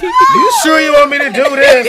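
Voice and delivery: mock hesitant woman. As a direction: squeal it out, hammed-up. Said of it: "I can see Tangy like".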